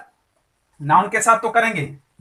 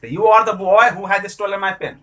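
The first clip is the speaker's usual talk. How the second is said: slow example; 3 dB louder, much slower than usual. Shown as a demonstration. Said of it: "example sentence read slowly".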